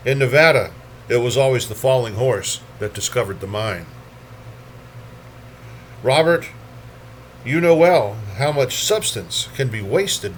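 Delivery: measured poem recital, each phrase lifted then let fall; poetry reading. Acted. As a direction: read it as verse, pausing at line breaks. Reads poems aloud at a poetry reading.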